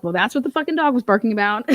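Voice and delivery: laughing through the words. Real, not acted. Laughing at her own neighbor story. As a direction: crack up while saying it. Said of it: "I'm like".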